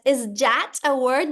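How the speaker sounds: slow, drawn-out rising question; exaggerated classroom quiz. Shown as a demonstration. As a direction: ask small children as if puzzled. Teacher models quizzing her pupils.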